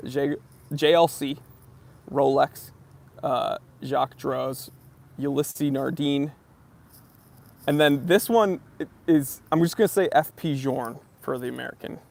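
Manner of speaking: brand names in plain American accent; flat American read of the names. Shown as a demonstration. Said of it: "read them in my American accent first".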